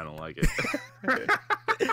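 slow unvoiced whisper. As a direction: whisper it slowly, creeped out. Whispered reply to whisper bit.

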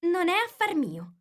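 high-pitched, daring comeback; bold retort. A narrator's reading. Alice talks back to the Queen, bold and high. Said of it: "sorpresa di scoprirsi tanto ardita".

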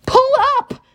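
high, loud yell; boy yelling at the driver. A narrator's reading. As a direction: shout the warning. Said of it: "I yelled".

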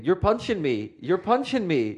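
high, confused protest; bewildered repeat. Retold or imitated. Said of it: "kept saying".

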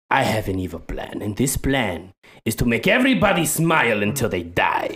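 lightly voiced accented villain; Pepe Le Fuck You. Would-be villain announces his evil plan, mild accented menace. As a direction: proclaim it with mock villainy. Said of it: "he wants to be the villain".

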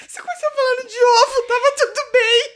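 high, loud words squeezed through laughter; laughing fit. Real, not acted. Teasing her co-host, she speaks through a high laughing fit. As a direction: talk while still cracking up.

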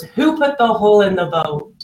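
lightly voiced accusing demand; a touch of indignant blame; accusing blamer. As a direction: play the blamer pointing fingers. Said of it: "the blamer looks at everyone and goes".

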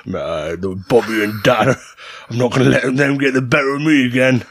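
lightly voiced monster with an accent; put-on monster accent. Monster vowing revenge on Bobby and Dan, put-on accent. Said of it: "that accent you were talking".

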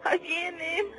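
high frantic cries of no; panicked. Real, not acted. Caller tells the host the shadows arrive, panicked. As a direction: scream that they are coming.

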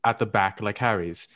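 put-on overly proper, old-fashioned English accent. Shown as a demonstration. Reading Harry Potter so friends can place it, English accent. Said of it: "when I do an, an English accent".

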